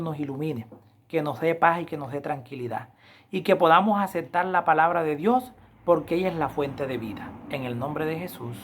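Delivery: softening, hushed closing prayer. Acted. Pastor leading the congregation in prayer, hushed and reverent. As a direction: pray humbly before God, voice falling away.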